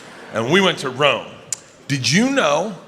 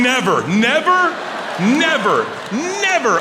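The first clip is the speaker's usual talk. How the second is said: emphatic nevers; 8 semitones higher, slower than usual. Real, not acted. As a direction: hammer never over and over, pitch jumping up. Emphatic repeated refusal.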